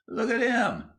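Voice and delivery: very high gleeful squeal; mirthful shriek. A narrator's reading. Boy spots William in the ditch, mirthful shriek. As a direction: shriek it with delighted mockery. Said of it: "he shrieked mirthfully".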